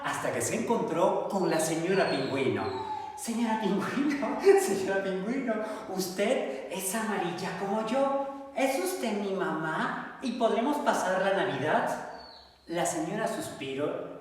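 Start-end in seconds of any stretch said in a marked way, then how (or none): 3.2-11.9 lightly voiced duckling. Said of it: "duckling asks penguin".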